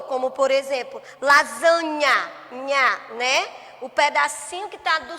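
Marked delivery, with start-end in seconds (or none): 1.2-3.5 lasanha said slowly and louder, then nha alone; teacher showing the rhyme in lasanha; rhyme emphasis. Shown as a demonstration. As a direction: stress the rhyming ending nha in lasanha. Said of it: "o que é que a palavrinha que rimou".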